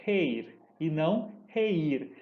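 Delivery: "reir" said once as one syllable, then split as re-ir; slow demonstration of "reir"; diphthong versus hiatus. Shown as a demonstration. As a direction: contrast the gliding "reir" with the broken one. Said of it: "por isso eu pronuncio".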